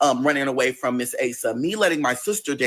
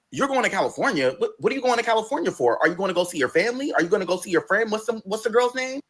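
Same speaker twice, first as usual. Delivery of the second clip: surprised questions; 5 semitones higher, faster than usual. Retold or imitated. Boyfriend quoted, surprised questions.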